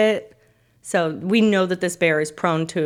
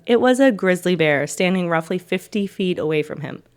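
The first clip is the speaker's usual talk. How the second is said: story narration. A narrator's reading.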